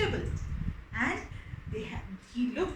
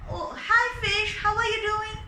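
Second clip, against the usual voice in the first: fisherman greets fish; 5 semitones higher, 5 dB louder than usual. Acted. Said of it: "he said".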